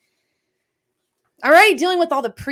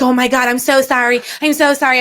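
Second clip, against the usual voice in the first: louder, gushing mock apology; imitated frantic apology; 3 semitones higher, 4 dB louder than usual. Parent quotes son who used the old name, effusive apology. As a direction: mimic a child apologising profusely.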